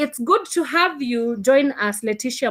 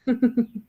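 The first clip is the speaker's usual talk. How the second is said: brief real chuckle; a little laugh at the silence; short chuckle. Real, not acted. Host laughs after unanswered call.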